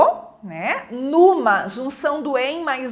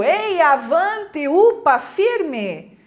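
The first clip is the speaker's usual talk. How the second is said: drawn-out rallying cries; mildly hammed-up cheering on; demonstrated encouragement; 2 semitones higher, much slower than usual. Shown as a demonstration. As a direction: urge someone on, stretching the words. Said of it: "De estímulo".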